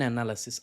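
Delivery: "analysis" said in an oddly put-on way; odd pronunciation. Real, not acted. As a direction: give "analysis" an unexpected, odd delivery. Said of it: "I don't know why I said analysis like that".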